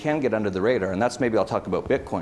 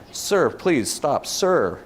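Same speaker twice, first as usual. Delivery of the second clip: mock meek plea; 4 semitones higher, much slower than usual. Mocking an American pleading with a police officer, slow and higher. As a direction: mimic a meek citizen pleading with a cop.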